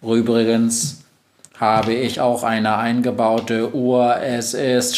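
slow, even machine voice; monotone, measured robot; robot Globus. Acted. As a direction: announce it like a computer. Robot Globus boasts of its clock.

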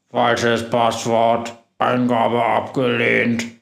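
slow, tinny machine voice. Acted. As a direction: read it out like a dented speaker. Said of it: "ertönt eine blecherne Stimme".

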